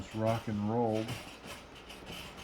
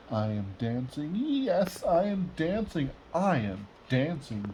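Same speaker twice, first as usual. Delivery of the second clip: joyful cry; 3 semitones higher than usual. Acted. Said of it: "Gerald cried".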